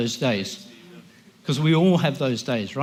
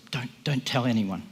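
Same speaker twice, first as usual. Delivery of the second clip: humble; 4 dB quieter than usual. Acted. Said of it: "He humbly says".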